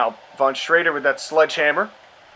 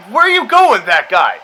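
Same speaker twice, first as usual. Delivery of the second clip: high, louder mock call at the wrestler; mock bewildered call; 3 semitones higher, 4 dB louder than usual. Real, not acted. Gamer yelling at a wrestler who wanders off. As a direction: call out at the screen, baffled.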